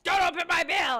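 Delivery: high, loud mock scolding; partner scolding. James scolding her for opening his mail, loud mock rebuke. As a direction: play boyfriend telling her off. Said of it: "James was like".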